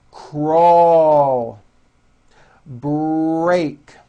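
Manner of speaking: each word with a strong R in the blend. Shown as a demonstration. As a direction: drill R blends for learners. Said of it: "practice words with R blends".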